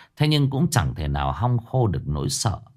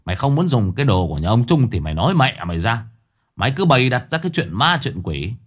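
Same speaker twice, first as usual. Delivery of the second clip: sullen scolding; faster than usual. Acted. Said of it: "hầm hầm giọng mà mắng".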